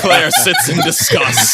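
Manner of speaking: mock narrator voice. Narrating mockingly.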